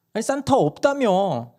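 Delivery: 높고 느린 아이 목소리로 반박; 모순을 잡아낸 꼬마처럼. Retold or imitated. 막내가 반박. (엄마에게 반박하는 막내 목소리)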